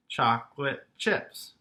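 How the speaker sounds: "chocolate chips" in three separate beats; syllable by syllable. Shown as a demonstration. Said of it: "has three syllables".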